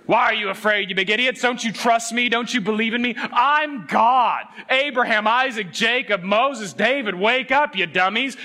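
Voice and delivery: a scolding God who is fed up; mock angry scolding. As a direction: berate them like a frustrated parent. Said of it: "No, no, no. That's not God's response".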